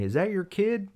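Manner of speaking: high-pitched questioning, imitating a bystander; retold lady's question. Lady asking from the street, high imitated question. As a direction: lift it high like a puzzled onlooker.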